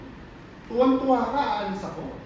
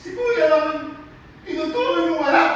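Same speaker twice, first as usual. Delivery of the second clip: hurt accusation; 4 semitones higher than usual. Acted. Acted quarrel, resentful child accuses parent.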